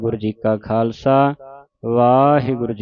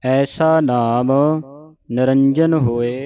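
slow, measured model recitation; scripture recitation demo; much slower than usual. Shown as a demonstration. Teacher showing congregation correct Japji Sahib reading, slow recitation. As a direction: recite it slowly for learners to copy. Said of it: "ਸ਼ੁੱਧ ਉਚਾਰਨ ਆਪਾਂ ਸਿੱਖ ਰਹੇ ਹਾਂ".

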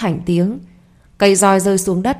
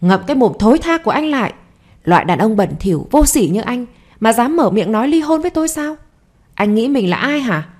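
desperate rage; 2 semitones higher than usual. Acted. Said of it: "cô gào lên trong tuyệt vọng".

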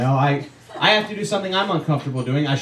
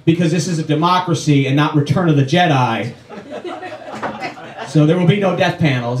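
mock president. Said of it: "he had to go".

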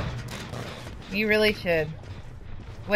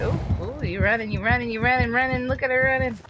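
mocking taunt; 5 semitones higher than usual. Real, not acted. Killer taunting fleeing survivor.

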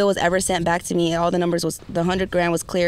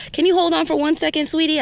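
sweet, higher Southern lady on the phone; 9 semitones higher than usual. Retold or imitated. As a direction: lift into a kind operator's voice. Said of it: "lady with a Southern accent".

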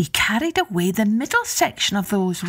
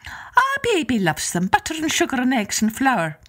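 high, lilting Irish wife; Una's voice; 6 semitones higher than usual. Acted. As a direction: sweetly put off the visitor in a high voice. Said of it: "she said".

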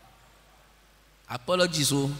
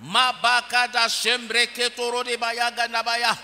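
speaking in tongues; 7 semitones higher, 5 dB louder than usual. Real, not acted.

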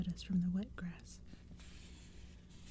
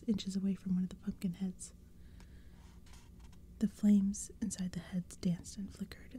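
hushed spooky whisper throughout; whispered storytelling. A narrator's reading. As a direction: breathe the story like a secret. Whispered narration continues.

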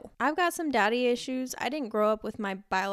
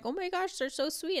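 gushing admirer; 9 semitones higher, 3 dB quieter than usual. Retold or imitated. People praising her kids.

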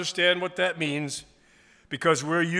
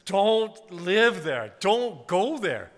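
gentle voice of grace; 4 semitones higher, 3 dB louder, slower than usual. Retold or imitated. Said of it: "Grace says".

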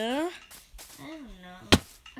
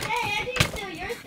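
protesting; 7 semitones higher, 5 dB louder than usual. Real, not acted. Protesting accusation.

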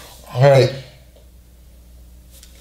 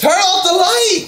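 raised, higher-pitched demand; urgent call; 5 semitones higher than usual. Real, not acted. Telling a child to turn off the light, urgent raised voice.

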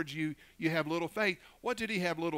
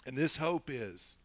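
prayer; 4 dB louder than usual. Real, not acted. Leads a prayer.

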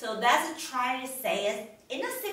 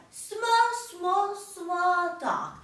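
raised, higher pitch for something small; tiny small-dog voice; 5 semitones higher, slower than usual. Shown as a demonstration. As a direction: make the word small sound little and high. Acting out dog sizes for children.

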